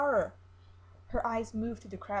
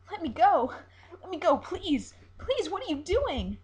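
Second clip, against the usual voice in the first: high, loud, terrified pleading; panicked; 9 semitones higher, 9 dB louder than usual. Acted. Siren panicking as coals are placed under her, high and loud. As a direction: scream to be let go. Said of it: "She begins to panic".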